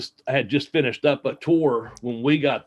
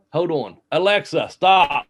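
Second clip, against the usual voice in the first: raised voice commanding a voice assistant; calling out; 4 semitones higher, 4 dB louder, slower than usual. Real, not acted. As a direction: call a firm stop to the smart speaker. Calls out to voice assistant.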